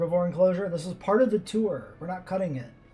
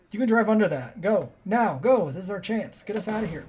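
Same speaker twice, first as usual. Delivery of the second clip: road rage yelling; 5 semitones higher than usual. Real, not acted. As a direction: yell at the driver to go. Urging stuck tour jeep on.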